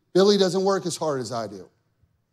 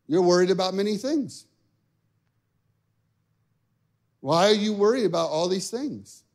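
lightly voiced sage, long pause between sentences; measured, cryptic questioning with a hint of Yoda; the Lord, Yoda-like; faster than usual. The Lord speaking to a frustrated golfer, sage-like. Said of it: "Why does the Lord sound like Yoda sometimes?".

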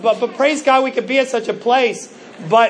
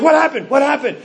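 worried parent, pitched higher; a hovering dad rushing to the sideline; anxious mock-frantic parent; helicopter parent; 4 semitones higher than usual. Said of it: "I'm the hovering helicopter parent".

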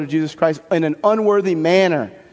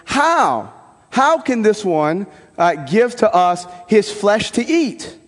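high, slow, disbelieving "How?"; voicing a skeptical crowd, drawn out; incredulous question; 4 semitones higher, slower than usual. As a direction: ask it as a baffled crowd. Quoting the Judeans' disbelieving question.

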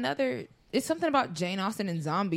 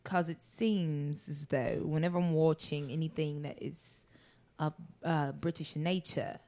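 slow, drawn-out British accent with dramatic pauses; gently mocking British drama delivery; 3 dB quieter than usual. Shown as a demonstration. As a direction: linger between words like a period drama. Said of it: "a lot of dramatic pauses between words".

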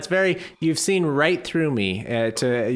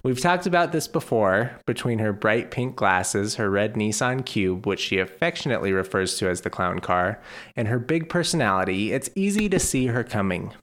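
measured storyteller reading aloud; scripted podcast intro read; story narration. Acted. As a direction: read a fond written anecdote to listeners. Reads a written piece.

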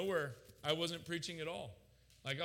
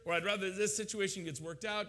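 loud, high protest; mad at God; 6 semitones higher, 6 dB louder than usual. Retold or imitated. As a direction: plead your case angrily, voice raised. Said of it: "like, just mad".

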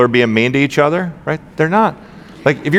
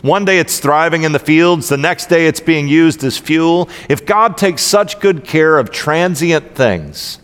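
Jesus-y voice. Acted. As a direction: read it as if Jesus speaks to each listener, unhurried. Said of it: "in my best, um, Jesus-y voice".

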